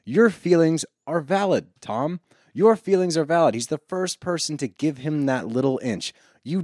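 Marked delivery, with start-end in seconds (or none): 0.1-3.5 imitating Brock. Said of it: "He even goes far enough to say".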